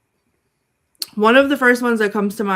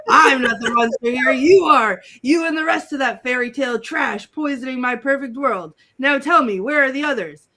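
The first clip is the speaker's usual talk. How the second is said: lightly voiced haughty villain, loud at first; theatrical mock menace; villain interrogation; 2 semitones higher, 5 dB louder than usual. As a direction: declaim it like a cartoon tyrant questioning a captive.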